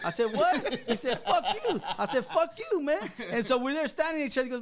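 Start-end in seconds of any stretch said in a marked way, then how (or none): 0.3-0.8 high, louder one-word challenge; retold affronted surprise. Teller answering the DJ's insult, retold affronted surprise. Retold quarrel, startled reply. 1.2-1.8 high-pitched mock-angry comeback; retold defiant retort. Teller playing the DJ who won't punk out, retold defiant retort. Retold quarrel, insult repeated. 2.3-3.0 high-pitched acted comeback; retold angry retort. Teller trading insults with the DJ, retold angry retort.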